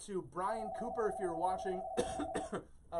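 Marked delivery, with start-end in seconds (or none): 1.9-3.0 coughing on dust. Real, not acted. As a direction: cough into the words. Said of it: "dust in my throat all of a sudden".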